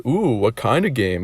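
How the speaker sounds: slow, teasing "ooh"; slow mock-flirty question. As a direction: draw out the ooh as if intrigued. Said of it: "why she said it like that".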